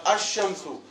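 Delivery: अशमसु with the lam silent, sounded ash-shamsu; अशमसु, lam swallowed into the sh; sun letter assimilation. Shown as a demonstration. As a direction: read अशमसु without the l, doubling the sh. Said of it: "अब इसको पढ़िए, कैसे पढ़ेंगे?".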